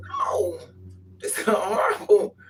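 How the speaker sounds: very high no then a sobbing laugh; comic crying protest; high laughing wail. Retold or imitated. Mock answer to partner.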